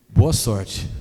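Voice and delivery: loud, dry sarcastic wish; sarcastic good luck. Retold or imitated. Pastor dismissing the husband, loud and sarcastic. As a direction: throw it out sarcastically. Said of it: "eu falei desse jeito".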